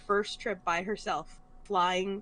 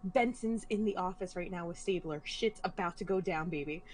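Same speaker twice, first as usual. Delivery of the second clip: softer, hushed shushing, gripped by the TV; shushing mom; 3 semitones lower, 6 dB quieter than usual. Retold or imitated. Mom on the phone hushing her daughter during TV, softly. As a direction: shush them, you're glued to the show. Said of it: "She goes".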